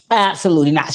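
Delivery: "Absolutely not." repeated loud and emphatic; imitating Drea's loud, emphatic refusal. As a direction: punch "Absolutely not." out loud the second time. Repeated refusal, now louder.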